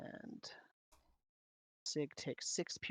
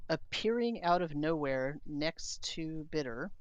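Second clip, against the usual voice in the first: game master scene setting; 3 dB louder than usual. A narrator's reading. Game master unveils a new enemy to the players, suspenseful narration. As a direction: draw out the arrival of a new creature.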